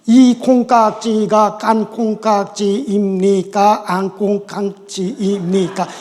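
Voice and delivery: slow, deliberate standard Korean question; slow standard phrasing. Shown as a demonstration. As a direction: spell out the long standard version slowly. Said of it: "표준말로는".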